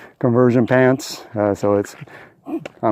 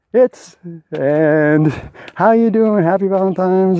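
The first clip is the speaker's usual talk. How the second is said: higher woman's voice, cheerful; hint of a friendly female caller; 7 semitones higher than usual. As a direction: lightly imitate her cheerful greeting. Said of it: "And she says".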